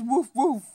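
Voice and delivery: soft imitation woofs; dog woof. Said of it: "the dog says".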